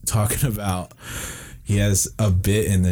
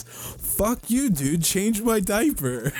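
much higher, slow mock baby voice; 13 semitones higher, 4 dB quieter, much slower than usual. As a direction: whine it up high like a big baby, mocking. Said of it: "And then Tom Segura goes".

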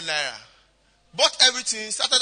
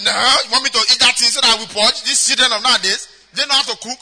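daddy scoffing, a touch louder and fast; mock indignant; 6 dB louder than usual. A husband scoffing at his wife's offer, mock indignant. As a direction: act the suspicious husband. Daddy refuses the girl's soup.

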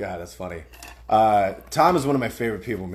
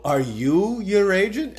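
slow, higher-pitched mock disbelief; imitated suspicious question; 6 semitones higher, slower than usual. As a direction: echo a friend's dawning suspicion. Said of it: "I love how you go".

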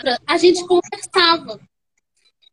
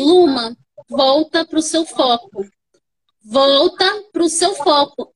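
command voice; 2 semitones lower than usual. Retold or imitated. Doula in her ear during labour, firm slow command voice. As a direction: calmly order her back to focus, unhurried. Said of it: "tipo uma voz de comando".

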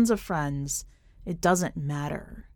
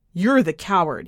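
yelling; 5 dB louder than usual. Acted. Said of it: "he yells".

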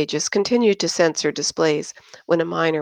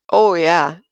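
jovial; 6 dB louder than usual. Acted. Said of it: "Josh pitched in jovially".

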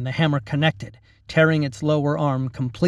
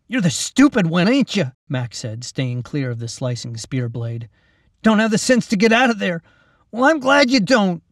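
high, loud mocking character voice; mocking young Mac; 6 semitones higher, 4 dB louder than usual. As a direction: taunt the trapped goblin. Mac's character voice.

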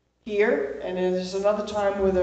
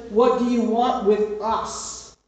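demon's challenge; 2 semitones higher, 3 dB louder, slower than usual. Acted. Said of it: "And then he says".

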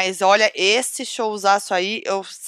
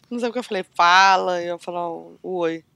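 muddled and losing words; foggy, confused rambling; delirious; 3 semitones lower than usual. Real, not acted. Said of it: "Delirando aqui, tô delirando".

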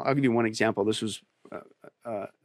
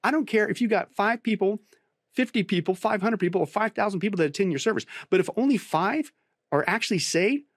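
much higher, intense preacher's challenge; fired-up rebuke; 8 semitones higher than usual. Retold or imitated. Pastor rebuking numbers-obsessed church leaders, heated high-pitched preaching. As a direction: hammer the crowd-pleasing pastors with rising fervor. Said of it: "I tell these people, I say".

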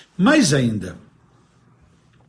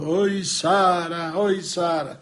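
slow, drawn-out wailing call for Sara; crying lament; much slower than usual. Acted. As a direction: moan her name like a heartbroken madman. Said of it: "tá o tempo inteiro reclamando". (lamento choroso e arrastado)

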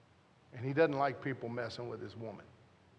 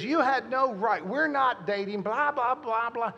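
higher, louder mock scolding; imitating wife; 7 semitones higher, 5 dB louder than usual. Husband mimics his girlfriend's scolding, higher and louder. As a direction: toss it off like her nagging. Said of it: "She goes".

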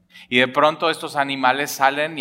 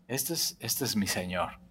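awed recognition; 5 semitones lower, 12 dB quieter than usual. Acted. Peter recognizes the Lord's voice.

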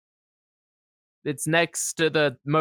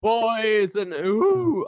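slightly Jamaican scary voice; 6 semitones higher, much slower than usual. Acted. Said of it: "I was trying to do a scary voice".

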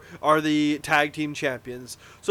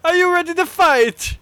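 hammed-up wrestler promo; 9 semitones higher, 6 dB louder than usual.

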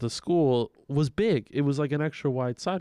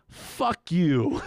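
higher, drawn-out mock yell; yelled insult; 4 semitones higher than usual. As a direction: holler it down from a window. Yells insult down at the girls.

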